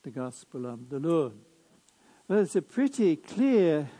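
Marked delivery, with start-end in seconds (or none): 0.0-1.3 measured liturgical reading voice; Gospel proclamation. Acted.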